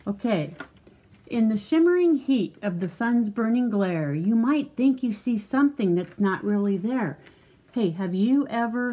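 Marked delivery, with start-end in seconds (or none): 1.3-7.2 measured, lilting picture-book read; reading to a child. Acted. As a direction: read it out clearly for a young listener.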